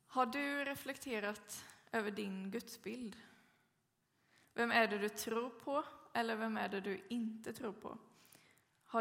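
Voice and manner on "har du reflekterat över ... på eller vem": whispered searching question to the listeners; reflective whisper. Real, not acted. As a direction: hush and invite them to reflect. Preacher poses reflective question.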